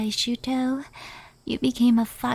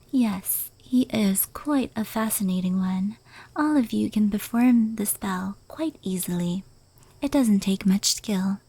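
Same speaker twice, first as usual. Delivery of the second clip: whisper; 2 semitones lower than usual. Acted. Yokai recounting fireworks lore to the listener, whispered. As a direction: hush every word as if telling a secret. Whispered explanation of transformation spell.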